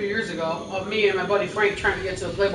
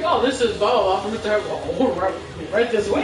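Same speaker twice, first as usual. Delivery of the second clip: nonchalant. Retold or imitated. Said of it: "he's so nonchalant".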